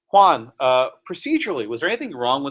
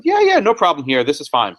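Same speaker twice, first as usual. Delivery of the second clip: sarcastic; 3 dB louder than usual. Retold or imitated. Appeals court rubber-stamping the sterilization case, sarcastic. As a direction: wave it through with airy sarcasm. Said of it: "I'm being sarcastic on purpose".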